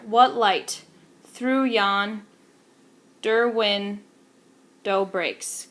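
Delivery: very slow, drawn out, stress on every second syllable; slow, measured meter; iambic rhythm. Shown as a demonstration. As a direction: stretch the line out to show the beat. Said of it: "there's rhythm in that".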